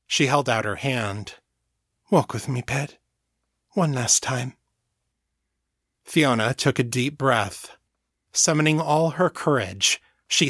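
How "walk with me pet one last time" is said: warm, comforting Southmorean lilt; lilting Southmorean accent. A narrator's reading. Mother comforts her frightened little girl, lilting Southmorean accent. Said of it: "Her lilting Southmorean accent was as warm and comforting".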